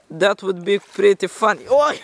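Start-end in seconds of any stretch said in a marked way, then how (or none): 1.7-2.0 surprised. Real, not acted. Slipping into water.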